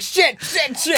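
high squawked curses; swearing bird. Pretend. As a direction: shout them like a parrot. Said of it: "Bunch of birds like".

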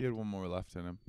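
hushed, breathy whisper of the same line. Pretend. Co-host whispers the joke back to his partner, hushed. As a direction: lean in and whisper it like a secret.

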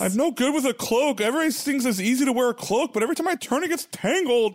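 squeaky nervous Vader moaning about his cloak; insecure Vader.

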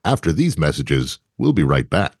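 low, smooth announcer cutting to a commercial break; lightly voiced announcer tossing to an ad. Co-host mimics the movie's break to ads, as a mock announcer. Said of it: "there's a point in this movie where they go".

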